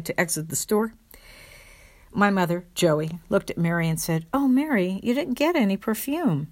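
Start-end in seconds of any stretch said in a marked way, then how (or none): 4.3-6.5 mock dismay. Mother's acted quote to her sister.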